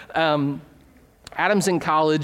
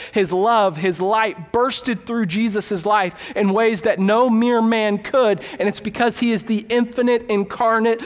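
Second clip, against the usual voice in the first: rising fervor; 4 semitones higher than usual. Real, not acted. Sermon climax building up.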